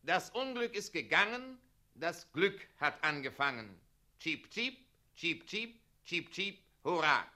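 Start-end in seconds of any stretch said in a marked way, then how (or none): 4.2-6.6 hoch zwitschernd wie ein Vöglein; Vogelgezwitscher. Shown as a demonstration. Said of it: "Sogar die Vöglein zwitschern fröhlich". 6.8-7.3 lauter Ruf. Shown as a demonstration.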